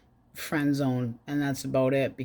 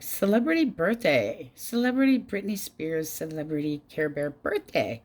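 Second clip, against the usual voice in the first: mocking gush. Mocking friend's excitement.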